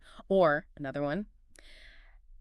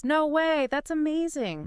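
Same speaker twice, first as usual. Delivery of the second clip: high-pitched amazed; 9 semitones higher than usual. Shown as a demonstration. Reacting to a friend's lottery win, high and amazed. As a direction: voice shoots way up in delight. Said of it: "high-pitched, amazed voice".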